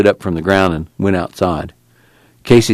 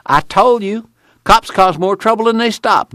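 excited; 13 semitones higher than usual. A narrator's reading. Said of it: "he cried".

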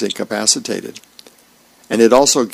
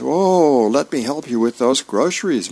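higher-pitched, lightly acted offer of help; eager helper; 4 semitones higher than usual. Son's friend offering mom help with groceries, eager. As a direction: play a keen, polite teenage friend.

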